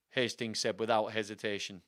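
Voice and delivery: plain reading voice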